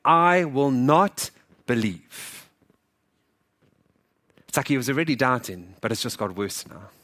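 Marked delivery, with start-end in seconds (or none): 0.0-2.5 very slow, emphatic retold refusal; angry. Thomas refusing the disciples' report, acted angry defiance. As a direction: spell out defiance word by word. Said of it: "I can hear it in his anger".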